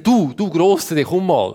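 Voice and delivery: lightly acted call, drawn-out address; calling a big animal. Adam calls a big animal to be named, lightly acted beckoning. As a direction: beckon the big one over.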